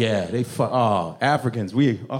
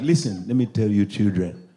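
imitated immigrant dad laying down law; accented, authoritarian dad voice; stern father; 5 semitones lower than usual. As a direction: lecture your children in a father's accent. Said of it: "one of those dads who's like".

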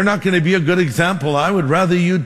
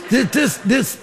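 laughing stammer; 8 semitones higher than usual. Real, not acted. Laughing at own bathroom sermon.

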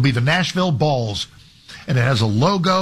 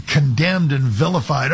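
ordinary talk, nothing marked

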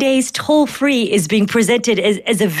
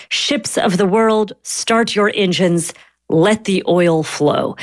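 slow, measured read-out of a proclamation; quoting the president; 3 semitones lower, slower than usual. Retold or imitated. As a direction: quote it slowly, phrase by phrase. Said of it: "I'm gonna quote him here".

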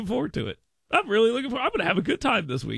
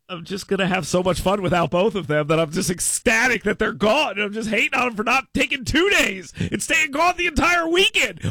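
gleeful, rising higher and louder to a shout; mock-jubilant husband home alone; giddy excitement; 7 semitones higher, 3 dB louder than usual. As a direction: gush like a kid let out of school. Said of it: "was my acting believable at the beginning".

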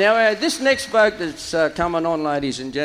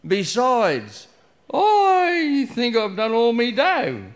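croaking; 5 semitones higher, slower than usual. Acted. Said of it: "he croaked".

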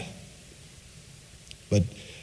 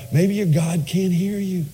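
trash talking; 13 semitones higher than usual. Retold or imitated. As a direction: jeer at them like a schoolyard bully. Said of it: "he starts trash talking them".

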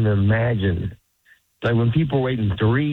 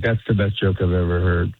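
deadpan praise; 5 semitones lower than usual. Retold or imitated. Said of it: "I'm like".

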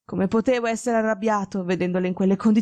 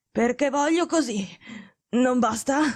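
higher, bossy sick man; authoritarian; 4 semitones higher than usual. Acted. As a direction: shut down the question imperiously. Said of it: "Era più autoritario che mai". (tono autoritario da malato)

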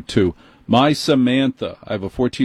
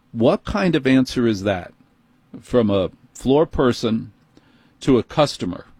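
ordinary talk, nothing marked

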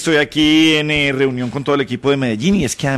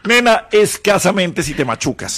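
slow, laughing as he quotes her back; laughing mockery; 3 semitones higher, slower than usual. Real, not acted. Radio host teasing co-host, slow and laughing. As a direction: tease her with her own words, giggling.

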